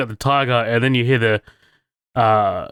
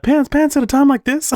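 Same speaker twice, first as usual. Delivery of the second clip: high laughing mock Alan voice, much higher; Alan's reaction; 13 semitones higher, 3 dB louder than usual. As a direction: squeak it out between laughs, incredulous. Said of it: "Alan's reaction to that".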